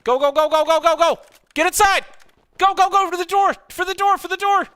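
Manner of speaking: high urgent shouting; calling from far away. Real, not acted. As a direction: yell across the field to the squad. Calling squad to building.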